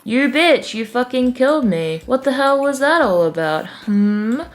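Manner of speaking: high-pitched indignant scolding; accuse, then prod with questioning hums; mock angry. Fish confronting Cryptic at picnic, mock angry. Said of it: "Fish is angry because".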